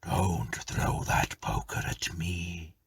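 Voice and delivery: slow whispered ghost voice; ghostly whisper. Acted. Ghost warning the tenant, slow and whispered. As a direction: breathe it out slowly like a spirit. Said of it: "replied the form".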